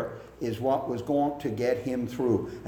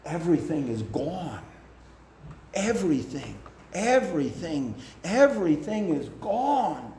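despairing; 4 semitones higher than usual. Retold or imitated. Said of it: "the man looked at the pastor and said".

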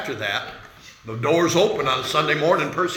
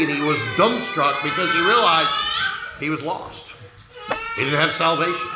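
tearful. Real, not acted. Preacher moved telling conversion.

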